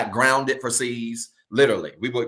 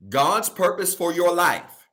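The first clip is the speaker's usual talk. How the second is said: slow, higher-pitched emphatic repeat; deliberately slow; 4 semitones higher, slower than usual. Shown as a demonstration. Preacher repeating the key point for the congregation, deliberately slow. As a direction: say it slowly so every word lands. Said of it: "I wanna say this again slow".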